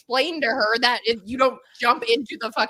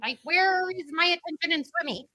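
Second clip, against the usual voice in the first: put-on child voice; 6 semitones higher than usual. Her child self voiced.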